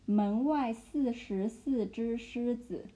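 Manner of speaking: 门外四十四只狮子 said slowly, each syllable apart; slow chunked demo. Shown as a demonstration. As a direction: drill 门外四十四只狮子 word by word. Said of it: "like, chunk it".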